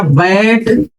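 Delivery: बैट slowly, with open "ae" as in bat; open AI vowel. Shown as a demonstration. Teacher giving an ऐ example, बैट with drawn-out "ae". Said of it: "आय का जरा बताओ".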